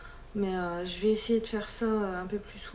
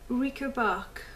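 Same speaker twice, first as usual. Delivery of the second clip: English name in a careful French accent; bad English accent; 3 semitones higher, 3 dB quieter, slower than usual. Real, not acted. Vlogger struggling to read an English polish name, thick French accent. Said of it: "je m'obstine avec mon accent, euh, pourrave".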